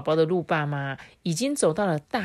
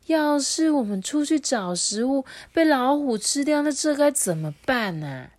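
worried deer mother; 8 semitones higher than usual. A narrator's reading. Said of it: "鹿妈妈就很担心啊".

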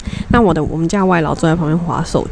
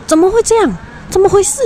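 much higher, frightened cry of disbelief; panicked; 13 semitones higher, faster than usual. Retold or imitated. The maid panics over the mystery bang, high frightened cry. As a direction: squeal it out in alarm. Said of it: "他说".

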